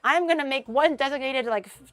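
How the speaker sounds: playfully determined declaration; defiant. Retold or imitated. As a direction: stand firm for the plushies. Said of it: "I'm like".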